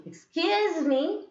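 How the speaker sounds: "Excuse me" swept up high and drawn out; slow, high questioning "Excuse me"; rising tone. Shown as a demonstration. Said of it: "that is rising".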